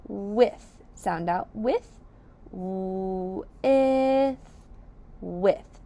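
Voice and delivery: "With" drawn out, the th held; sounding out. Shown as a demonstration. Teacher modelling a syllable for children, drawn out. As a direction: stretch the sounds of "With". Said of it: "The first syllable is with".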